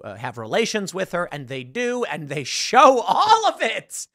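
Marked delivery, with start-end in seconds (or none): 2.0-4.1 slow, higher, disbelieving laugh through the words; laughing in disbelief; laughing at an outrageous scene, slowed and high. Real, not acted.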